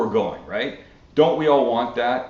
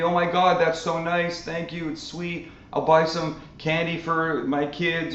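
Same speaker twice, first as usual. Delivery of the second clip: imitated gratitude, pitched up and gentle; grateful reaction; 4 semitones higher than usual. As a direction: act out someone sweetly thankful. Acting out grateful people given five dollars.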